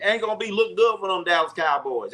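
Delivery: playful mock Southern country accent. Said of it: "I gotta get my country accent".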